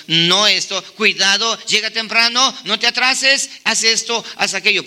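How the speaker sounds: mock parental nagging, rising item by item; lightly acted list of parental orders; insistent nagging parent. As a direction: rattle off warnings like an insistent parent.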